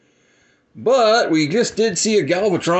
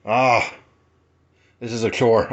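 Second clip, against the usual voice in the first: out of breath; 4 semitones lower than usual. Real, not acted. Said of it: "I'm out of breath".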